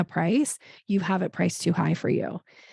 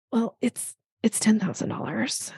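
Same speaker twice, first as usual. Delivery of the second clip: unconfident; 3 semitones higher than usual. Shown as a demonstration. Coach mocking a nervous price quote, hesitant. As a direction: quote it like you doubt it. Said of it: "you don't sound very confident in it".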